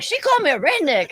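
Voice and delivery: high outraged complaint. Retold or imitated. Marcus complaining to his girlfriend, outraged. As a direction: sound wounded and furious.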